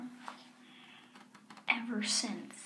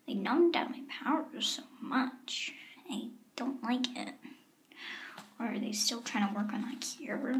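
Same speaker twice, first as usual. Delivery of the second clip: whispering. Acted. Hiding from guards outside door.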